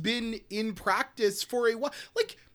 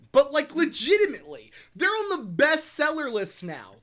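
loud, raised-pitch insistence; yelling; 5 semitones higher, 4 dB louder than usual. Real, not acted. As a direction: keep yelling to drive the point home. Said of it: "Sorry, I'm yelling".

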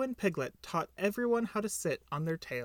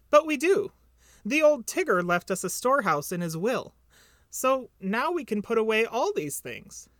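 higher, louder little piglet voice; small eager Piglet; 4 semitones higher, 4 dB louder than usual. Acted. Piglet's voice held in the dialogue.

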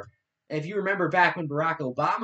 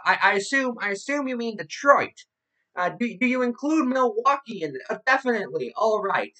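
higher-pitched mocking radio-host voice; Rush Limbaugh parody; 7 semitones higher than usual. Podcast host reading out a radio host's transcript, mocking his voice. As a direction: send up a radio host talking to someone off mic. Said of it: "making fun of his voice".

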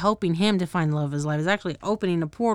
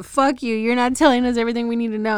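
higher, louder, fast accusation; imitating the humans turning on him; hammed-up angry outburst; mock angry yell; 5 semitones higher, 5 dB louder, faster than usual. Humans quarrel with Alucard.

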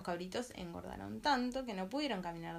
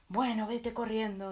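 louder troll dismissal; troll sending the middle goat off, loud; 2 semitones higher, 7 dB louder than usual. Acted. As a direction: bark the dismissal.

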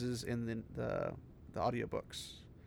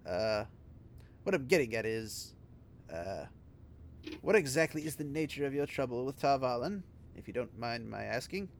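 Alec Guinness voice; 4 dB quieter than usual. Acted. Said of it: "kinda slipping into, like, a, uh, Alec Guinness".

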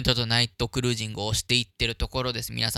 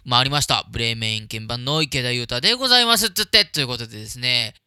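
slow, low, sleepy late-night voice; extremely deep bass voice; 4 dB quieter, slower than usual. Shown as a demonstration. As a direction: speak slowly in a low hushed tone. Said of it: "ゆっくりできるだけ低い声で喋るって". (低くゆっくり、テンション低めの声)

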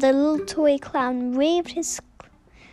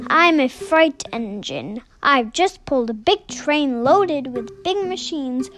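lightly voiced bellow.

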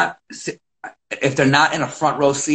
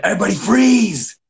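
calling out; 7 semitones higher than usual. Retold or imitated. Coach calling to kids.

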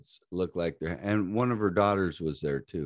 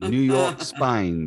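mock New York accent; 4 dB louder, much slower than usual. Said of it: "he's speaking in my accent".

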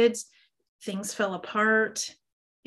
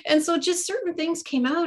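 much higher, laughter lingering in the words; laughing; 8 semitones higher than usual. Real, not acted. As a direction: talk on while still laughing. Still laughing after the anecdote.

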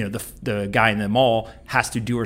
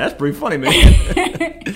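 imitating Barkley; 9 semitones higher, 8 dB louder, slower than usual. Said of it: "And Charles is like".

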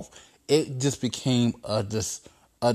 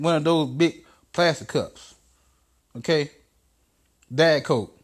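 Trump bossing; 2 semitones higher than usual. Acted.

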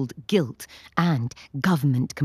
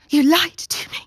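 high, loud breathless pant; 11 semitones higher, 5 dB louder than usual. Acted. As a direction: gasp the words out, panting. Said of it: "Stephanie pants".

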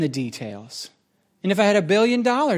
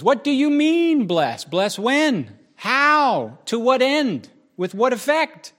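insistent questioning; 5 semitones higher, slower than usual. Acted. Mock interrogation of a vague prayer.

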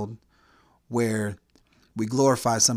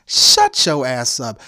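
angry command; 6 dB louder, slower than usual. Real, not acted. Angry rant against feminists.

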